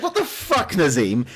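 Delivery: high squeaky laughing outrage at the betrayal; mock disbelief. Gamer to friends, recalling the betrayal: high laughing disbelief. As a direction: cry out the name in high-pitched disbelief. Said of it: "I was like".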